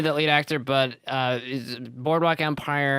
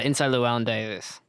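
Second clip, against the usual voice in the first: slurred title; tipsy mumbled name. Real, not acted. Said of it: "I totally drunk spoke that".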